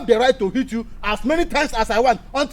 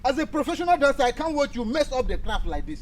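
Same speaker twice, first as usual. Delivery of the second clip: higher-pitched exasperated rebuke; irritated scolding; 4 semitones higher, 3 dB quieter than usual. Acted. Professional dancer telling off a pupil who messes up, irritated. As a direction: scold with irritation, without full shouting. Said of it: "I'm shouting because what you're doing is irritating me".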